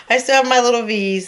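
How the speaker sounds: repeated with a laugh; delighted laughing repeat. Real, not acted. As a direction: say "I still have my little V's" laughing proudly. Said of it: "repeats phrase laughing".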